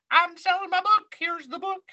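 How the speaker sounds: mock book-tour pitch. Host teasing guest about his book tour, hammed-up salesman pitch. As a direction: play a pushy author hawking his book.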